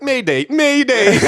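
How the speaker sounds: high, loud, drawn-out Minnesotan mayday; slow Minnesotan distress call, laughing through it; goofy Minnesotan accent. Retold or imitated. Imitating the pilot going down, goofy Minnesotan accent. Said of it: "He's such a goofy talker".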